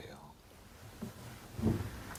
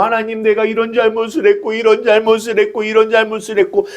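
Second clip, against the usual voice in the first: 흉내 낸 울며 하는 회개; faster than usual. Retold or imitated. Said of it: "그래서 내가 막 울어요".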